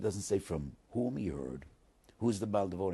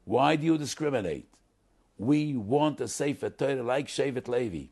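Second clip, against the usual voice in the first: mock protest; 6 semitones higher, 9 dB louder than usual. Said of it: "And they said".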